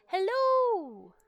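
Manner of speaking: loud high greeting. Real, not acted. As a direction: shout hello across the room. Greets screaming chat member Fire.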